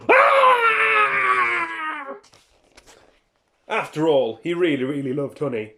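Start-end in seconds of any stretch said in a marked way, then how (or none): 0.1-2.2 high sudden shout; startled shout. Acted. Narrator acting shock at Norman's reveal. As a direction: yelp in surprise.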